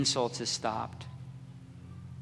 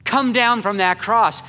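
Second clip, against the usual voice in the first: loud, higher jeering voice; mocking taunt; 7 semitones higher, 8 dB louder than usual. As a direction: goad him to come down. Crowd mocking Jesus on cross.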